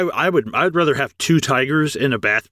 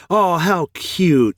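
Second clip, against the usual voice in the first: imitating the woman; 4 semitones higher, much slower than usual. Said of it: "the woman comes and she's like".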